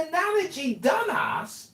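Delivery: scoffing, disbelieving repeat; incredulous echo. Real, not acted. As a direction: throw the insult back in disbelief. Mocking echo of insult.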